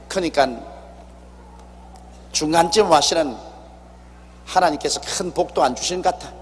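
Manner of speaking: usual speaking voice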